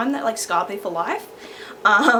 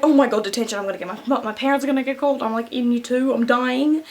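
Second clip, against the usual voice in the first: loud, rising retold panic; mock panic; 4 semitones higher, 5 dB louder than usual. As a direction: spiral into hammed-up dread. Acts out own panic at detention.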